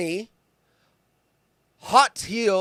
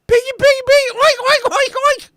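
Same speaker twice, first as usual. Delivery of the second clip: very high, loud hog-calling singsong; squealing farmer pig call; mock pig call; 10 dB louder than usual. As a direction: call the pigs in from the yard.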